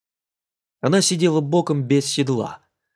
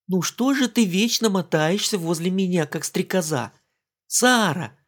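lightly voiced teasing mimicry; mock his old nagging words; mimicking him; 6 semitones higher than usual. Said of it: "передразнила она". (передразнивая Тома, слегка)

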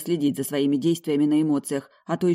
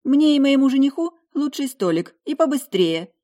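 much higher, louder, grating demand; 10 semitones higher, 6 dB louder than usual. Acted. Heroine ordering the best table for her fiancé, shrill high demand. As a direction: whine it out high and obnoxious. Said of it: "произношу высоким голосом".

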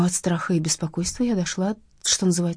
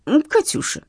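whining; 10 semitones higher, 3 dB louder than usual. Acted. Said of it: "снова заныло желе".

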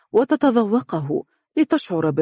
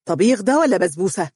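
mildly stern challenge; a touch of sharp disapproval; 2 semitones higher, faster than usual. A narrator's reading. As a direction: demand it with understated severity. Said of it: "وقال بصرامة".

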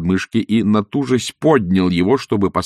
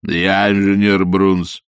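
sudden bass; 4 dB louder, slower than usual. Acted. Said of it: "неожиданным басом".

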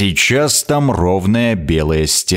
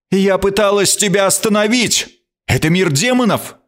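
a queen's voice pitched higher, hard and cutting; 11 semitones higher than usual. A narrator's reading. Queen rebukes the narrator for opening the portal, hard-voiced. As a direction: snap it back, firm and accusing. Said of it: "Она отрезала жёстким голосом".

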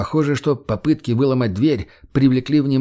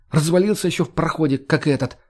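snapping; 5 semitones higher than usual. Acted. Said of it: "огрызнулась Марго".

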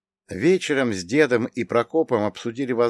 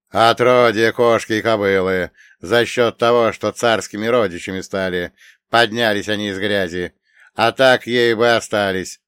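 contemptuous; 6 dB louder than usual. Acted. Khovansky scorns the Romanovs.

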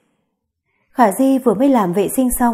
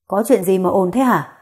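put-on old man's voice; 2 semitones lower than usual. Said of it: "một giọng nói già dặn vang lên".

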